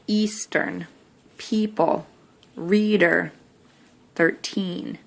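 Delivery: each word with the ee vowel leaned on; accentuated E. Shown as a demonstration. Teacher checking the word sort aloud, accentuated vowels. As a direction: stress the ee sound in each word. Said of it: "accentuate the E".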